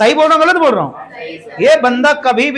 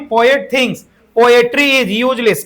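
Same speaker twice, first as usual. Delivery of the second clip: very slow, word by word; slow dictation; much slower than usual. Shown as a demonstration. Teacher reading the question aloud to students, slowly. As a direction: spell the question out for the class.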